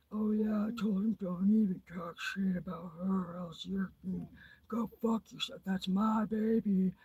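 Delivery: high, slow smug imitation; mocking Chris. Mimicking Chris's lie to the viewers, high and slow. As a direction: lightly parody his boasting, drawing it out. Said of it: "and you say".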